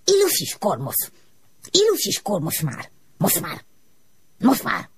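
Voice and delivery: high, strange puffing words; puffing smoke voice. A narrator's reading. The smoke puffing its answer to Ilus. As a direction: puff the words out. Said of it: "pöfögött a füst".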